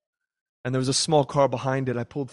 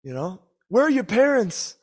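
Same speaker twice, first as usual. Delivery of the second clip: much higher and louder, furious; angry yelling driver; 10 semitones higher, 4 dB louder than usual. Retold or imitated. Angry driver yelling at the teen after the crash, furious. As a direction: bark at the kid like a furious stranger. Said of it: "this guy goes".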